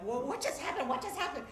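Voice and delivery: puzzled after the chaos; bewildered father. Retold or imitated. Father stumbles back, mildly bewildered questions.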